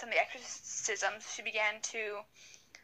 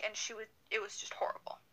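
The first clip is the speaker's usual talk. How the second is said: hushed; 6 dB quieter, faster than usual. Real, not acted. Aside about the horror.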